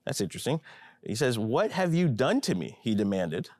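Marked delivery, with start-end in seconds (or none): 1.4-2.8 higher, pointed demand; sharp accusation. Acted. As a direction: confront him with the wrong done. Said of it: "accused him sharply".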